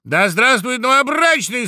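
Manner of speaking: high, ringing toast; loud shout. A narrator's reading. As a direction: hail the groom at full voice. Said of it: "закричал дятел громко".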